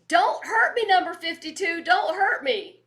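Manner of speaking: put-on high, small, pleading child's voice; little toddler voice. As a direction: beg like a scared six-year-old. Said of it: "in this voice of, like, a six-year-old little toddler".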